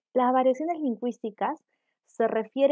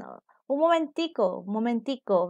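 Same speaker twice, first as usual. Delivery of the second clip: Venezuelan momentico. Retold or imitated. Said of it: "algunos colombianos dicen".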